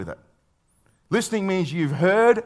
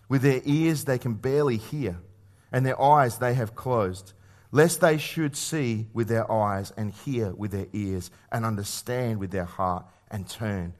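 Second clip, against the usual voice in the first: slow, measured scripture reading, sinking softer; 5 semitones lower, 4 dB quieter than usual. Acted. Preacher reads Isaiah to the congregation, slow and solemn scripture reading. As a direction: read the prophecy out solemnly, letting it fall away.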